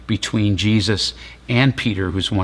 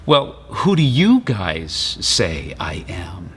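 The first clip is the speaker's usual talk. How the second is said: hushed question; 3 semitones lower, slower than usual. Retold or imitated. Jesus asks disciples quietly.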